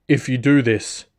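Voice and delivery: pained, strained voice; grunting in pain. Acted. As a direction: push the words through pain. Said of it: "grunting from pain as the fall set in".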